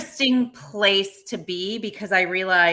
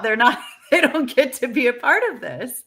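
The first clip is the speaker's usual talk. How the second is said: nervous laugh; 5 semitones higher, 4 dB louder than usual. Real, not acted. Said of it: "That was a nervous laugh".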